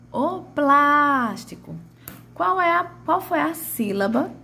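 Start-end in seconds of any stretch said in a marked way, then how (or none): 0.1-1.7 high, slow "plástico", long on "plás"; "plástico" sung out with held "plás"; calling out stretched. Shown as a demonstration. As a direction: call "o plástico", pulling out the first syllable. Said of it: "puxei mais".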